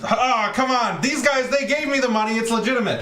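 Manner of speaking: high-pitched, play-acted pleading; mock pleading protest. Suspect blaming the guys for counterfeit money, mock pleading. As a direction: plead your innocence in a staged scene.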